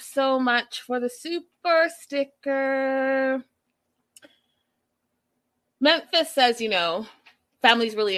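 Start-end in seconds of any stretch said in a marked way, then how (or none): 0.0-3.4 drawn-out, playful thank-you. Real, not acted. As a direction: stretch the last words out slowly.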